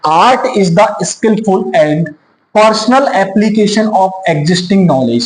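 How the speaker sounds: very slow, word by word dictation; slow dictation reading. Shown as a demonstration. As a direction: read it out for students to copy. Reads definition from slide. (धीरे-धीरे शब्द-शब्द बोलकर लिखवाना)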